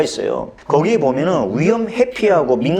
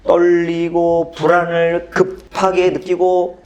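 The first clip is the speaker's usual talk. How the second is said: ordinary delivery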